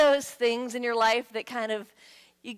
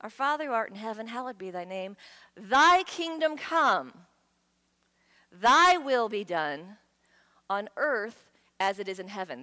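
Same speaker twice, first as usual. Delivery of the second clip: solemn prayer. Retold or imitated. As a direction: intone it with growing fervour. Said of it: "What am I praying for?".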